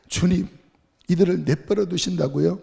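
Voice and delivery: mock a prophet in a temper; mock-angry prophet complaining to the Lord; hot-tempered retort. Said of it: "막 승질을 내요".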